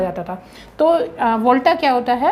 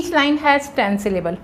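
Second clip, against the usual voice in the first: slow dictation; much slower than usual. Shown as a demonstration. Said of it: "teacher dictates rule".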